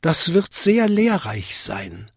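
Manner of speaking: high-pitched little bell; Vinzi, jingling. A narrator's reading. Smallest bell welcomes the lesson, jingling high. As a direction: answer high, like a small chime. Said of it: "bimmelte Vinzi".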